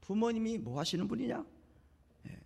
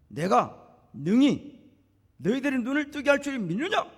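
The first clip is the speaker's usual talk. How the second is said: loud, emphatic question, rising at the end; challenging Jesus; 6 semitones higher, 6 dB louder, slower than usual. Retold or imitated. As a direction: put the question forcefully, as Jesus testing their faith. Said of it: "예수님이 그들에게 하시는 말씀이".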